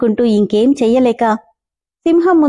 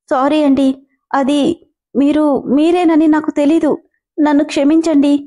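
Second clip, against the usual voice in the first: higher, pleading, on the edge of tears; begging forgiveness in a mild crying voice; tearful voice; 4 semitones higher than usual. Acted. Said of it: "అని ఏడుపు గొంతుతో చెప్పింది". (ఏడుపు గొంతుతో క్షమాపణ)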